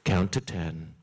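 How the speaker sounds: rabbi's voice. Retold or imitated. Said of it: "he says".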